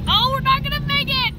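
high, loud alarmed cry; excited shout. Real, not acted. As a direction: yelp it as the truck slides. Truck stuck in snowy driveway.

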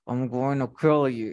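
annoyed, through pressed lips; annoyed pout. Shown as a demonstration. Teacher showing how angry people pout, annoyed pressed-lip voice. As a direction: mutedly threaten through a tight pout. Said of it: "to show annoyance by pressing the lip".

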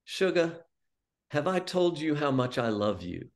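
lightly voiced imitation of Mom's Cajun endearment; a hint of sweet Cajun. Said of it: "sweet Cajun voice".

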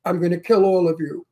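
imitating a stiff reading, "all of you" said word by word; mock non-New-York line, "you" fully pronounced; imitated bad New Yorker. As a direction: separate "all of you" into three careful words. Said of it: "He said".

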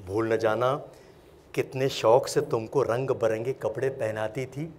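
measured, pleading recitation with pauses between phrases; poem recitation. Acted. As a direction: recite as an ageing parent appealing to their children, rising on key lines. Recites a parent's poem to children. (نظم خوانی، ٹھہر ٹھہر کر التجائیہ انداز میں)

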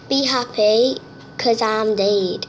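slow, drawn-out reading of "Be happy, 'cause I'm dead"; dramatic reading. Shown as a demonstration. Reading a spooky poster aloud, slow and ominous. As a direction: read the poster like an ominous line. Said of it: "It says on the poster there".

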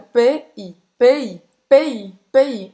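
"P" then "I", each sound said apart and loud; spelling it out. Shown as a demonstration. Teaching how to say "pays", sound by sound. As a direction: break "P I" into two separate loud sounds. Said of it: "então você vai falar assim".

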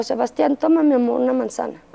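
agudo y dulce, como a un niño; ofrécele la manzana con cariño, más alto; tierna con el hijo. Retold or imitated. Madre le habla tierna al hijo. (madre a su hijo autista, dulce y aguda)

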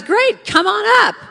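high, loud call; enthusiastic invitation. Retold or imitated. TV star calling a kid up on stage, loud and enthusiastic. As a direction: belt out a big showbiz welcome.

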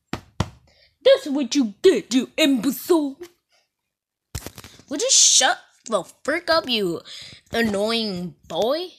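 hammed-up furious rant; mock angry scold. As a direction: scold the annoying boy in jest. Scolding game character angrily.

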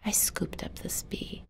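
soft narrating whisper; hushed whisper. A narrator's reading. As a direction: keep it hushed and gentle. Hushed continuation.

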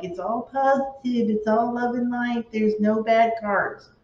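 mock cheerful tarot reader; mocking positivity. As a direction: parody the love and light crowd. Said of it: "I'm not like".

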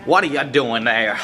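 hammed-up clean-mouthed telling-off; mock scolding. Showing how to be mad at Johnny, mock angry.

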